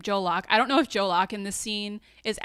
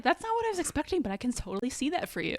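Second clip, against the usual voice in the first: put-on sassy teen; 6 semitones higher, faster than usual. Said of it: "and he's like".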